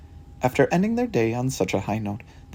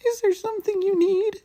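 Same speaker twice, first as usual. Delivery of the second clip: high, eager sidekick voice; a proud little cat laying out the clues; Watson's voice. Acted. Watson explains the case to Sherlock, high.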